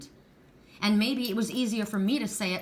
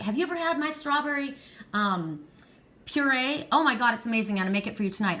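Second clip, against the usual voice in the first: higher-pitched, mock-gushing girl talk; imitated excited chatter; 3 semitones higher than usual. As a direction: gush like a friend raving about food. Imitates giggling girls chatting about food.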